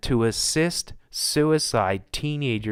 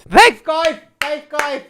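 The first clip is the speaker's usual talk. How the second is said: sarcastic thanks; 12 semitones higher, 8 dB louder, slower than usual. Real, not acted. Sarcastic thanks to bomb makers.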